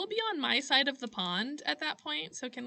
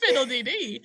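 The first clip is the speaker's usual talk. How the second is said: put-on Irish accent; 5 dB louder than usual. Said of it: "gone with the Irish accent".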